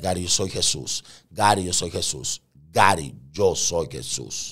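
measured, repetitive divine declaration; voice of Jesus. Retold or imitated. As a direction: drop from excitement into calm, solemn authority. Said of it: "escucho la voz que me dijo".

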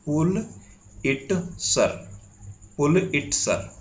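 पुल इट सर broken into three separate pieces, PUL-IT-SUR; correct pronunciation. Shown as a demonstration. Teacher showing students the proper way, पुल इट सर said in separate syllables. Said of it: "सही pronunciation अगर आप करना चाहेंगे".

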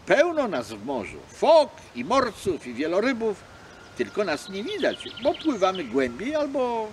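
loud, proud seal boasting; huffy seal showing off; offended seal. Acted. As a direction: defend the sea folk indignantly. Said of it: "obrażona".

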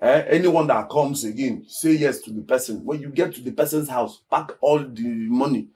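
low, soft and halting; conspiratorial scheming. Acted. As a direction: lay out the shady plan quietly, piece by piece. Lays out a shady scheme to her.

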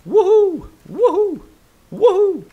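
high excited cheer; excited whoop. Real, not acted. Repeated cheer.

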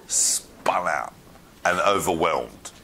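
hushed, breath-only emphasis; awed whisper. Shown as a demonstration. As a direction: drop to a whisper for effect. Dramatising Elisha being overwhelmed.

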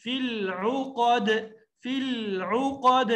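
slow فی العقد with a light, smooth ل; no jolt on the ل; thin silent lam. Shown as a demonstration. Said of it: "لام کو ساکن پڑھنا ہے، باریک".

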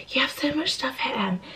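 hushed whisper so no one wakes; whisper, people are asleep; library whisper. Real, not acted. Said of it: "I'm whispering 'cause people are in bed".

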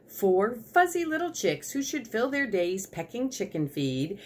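lively, measured read-aloud introduction; story narration. A narrator's reading. Reader introducing the chicken squad to a child, story narration. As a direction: introduce the characters with swinging intonation.

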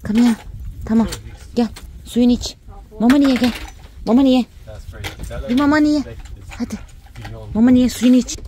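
high, loud coaxing pet voice; sing-song coaxing to the pet; pet talk. Real, not acted.

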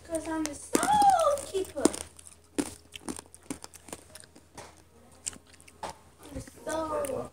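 high, grand villain-style boast; dramatic boast. Pretend. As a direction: proclaim it like a dark title. Dramatic game boast, repeated.

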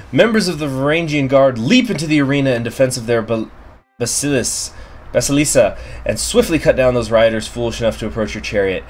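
measured storyteller read; story narration. A narrator's reading. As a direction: read it like a game event. Reading event text aloud.

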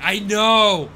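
high, loud, slow put-on gush; mock valley agreement. Streamer to chat, mock gushing agreement.

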